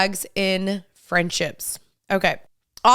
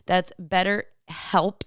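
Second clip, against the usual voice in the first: measured, softer podcast ad read; sponsor ad read; 5 dB quieter than usual. Acted. Host recommending online therapy to listeners, measured ad read. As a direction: read the sponsor copy in an even, earnest way.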